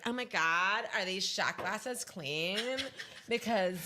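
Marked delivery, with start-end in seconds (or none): 0.1-2.6 slow, drawn-out fussy imitation; mock fussy guy. Host mimicking a man inspecting shot glasses, mock fussy. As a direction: lightly imitate a friend's drawn-out fussing. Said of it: "the Jared thing when he was like".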